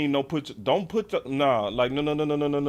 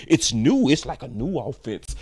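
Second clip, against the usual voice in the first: mock hype; 2 semitones lower, 4 dB louder than usual. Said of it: "I ain't gonna be giving y'all no".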